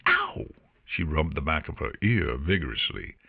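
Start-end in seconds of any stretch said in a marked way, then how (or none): 0.1-0.4 very high yelp of sudden pain; sharp yelp. Acted. Artemis stung again by Luna, high yelp of pain. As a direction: squeal as if stung.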